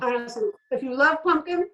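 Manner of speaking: talking with a mouthful; mouth full. Real, not acted. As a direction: speak around a bite of food. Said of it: "sorry to talk with my mouth full".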